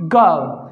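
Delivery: "गो" said g-uh-oo; gliding o sound. Shown as a demonstration. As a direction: drop "गो" from uh into oo. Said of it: "तो ये बोला जाएगा".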